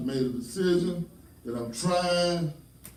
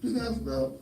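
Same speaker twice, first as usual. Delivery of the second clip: high-pitched mock holler; retold hollering; 9 semitones higher than usual. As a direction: call it out across the room, imitating yourself. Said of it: "I'm in there hollering at people".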